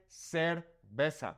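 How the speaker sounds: "cerveza" with the C and Z both as S, slowly; S sound in cerveza. Shown as a demonstration. Teacher showing how Mexico says beer, "cerveza" with S sounds. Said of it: "The C has the S sound".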